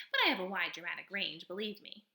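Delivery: a showy little stage actor of a possum; possum character voice. Acted. Possum boasts of range.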